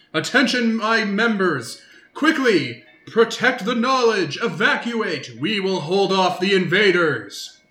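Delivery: stagy, grand, declaiming announcer voice. Narrating to players as a voice screams through the hallways: booming shouting voice. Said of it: "you hear a booming voice scream through the hallways".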